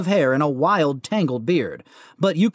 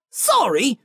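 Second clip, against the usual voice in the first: barked question; 7 semitones higher than usual. Acted. Giant barking Sorry? back at Harry in disbelief. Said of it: "barked Hagrid".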